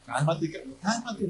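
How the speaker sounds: soft, slow calming voice; wife calming. Retold or imitated. Wife calming the pastor down, soft and slow. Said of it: "mi esposa dice".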